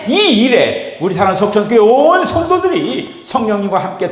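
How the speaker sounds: emphatic prayer with stretched, swelling phrases; earnest pleading that builds, then settles on the amen; fervent public prayer. Real, not acted. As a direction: pray aloud with force for the congregation.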